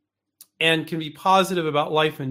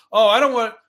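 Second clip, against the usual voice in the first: higher, louder burst of worried protest; mock freak-out; 6 semitones higher, 8 dB louder than usual. Worried spouse objecting to a risky invention, mock freak-out. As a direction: play a spouse lightly panicking. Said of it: "they're freaking out going".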